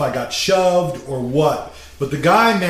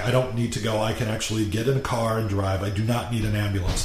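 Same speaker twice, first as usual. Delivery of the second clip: softer, level insistence; eerily calm; 4 semitones lower, 6 dB quieter, faster than usual. Retold or imitated. Refusing the paramedics' ambulance, softly calm. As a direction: play it perfectly reasonable. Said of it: "this is the way I go after a fight. I get really calm".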